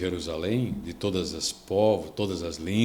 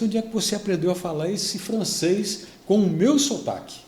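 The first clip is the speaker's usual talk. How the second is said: higher, astonished husband asking his wife; amazed question; 9 semitones higher than usual. Retold or imitated. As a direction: ask in disbelief, voice lifted high. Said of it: "E ele chegou com ela e disse".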